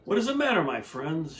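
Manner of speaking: gentle caring engine; a kind little engine; kind question. Acted. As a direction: ask the toys kindly what's wrong. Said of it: "she asked kindly".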